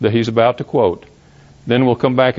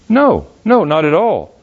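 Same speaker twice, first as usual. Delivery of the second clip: emphatic denial. Real, not acted. Rejects a misreading firmly.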